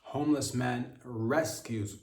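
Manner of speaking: "rescues" slow and weighted, pointed; stress on rescues. Shown as a demonstration. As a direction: lean on "rescues", slowly. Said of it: "emphasis on rescues mom and baby".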